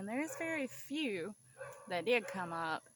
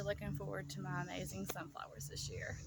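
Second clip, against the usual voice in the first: whispering; 7 dB quieter, faster than usual. Real, not acted. Wistful unvoiced aside.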